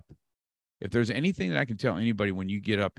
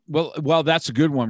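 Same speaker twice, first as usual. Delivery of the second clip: ordinary talk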